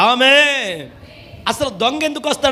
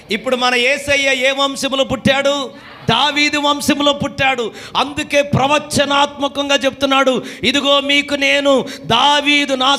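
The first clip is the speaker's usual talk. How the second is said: high, ringing call to the congregation; preaching shout; 4 semitones higher than usual. Real, not acted. Preacher to congregation, a high proclaiming shout. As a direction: proclaim it out to the whole church.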